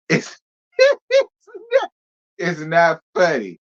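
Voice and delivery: high squealing laugh breaking the words; losing it mid-sentence; cracking up. Real, not acted. Telling viewers it's not funny, laughing hard. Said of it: "That's not what I'm laughing at".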